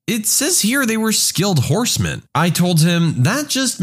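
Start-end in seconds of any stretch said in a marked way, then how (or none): 0.1-2.2 higher-pitched pupil voice; lightly voiced schoolkid, pitched up; student explaining. Student answers the confused teacher.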